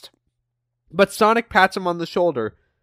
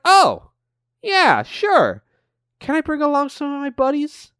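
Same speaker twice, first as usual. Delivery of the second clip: cocky Jet voice; 8 semitones higher than usual. Retold or imitated. Jet eagerly agrees.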